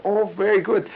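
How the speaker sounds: a high sigh of relief; relieved doctor. Retold or imitated. Doctor finishing the exam, high and relieved.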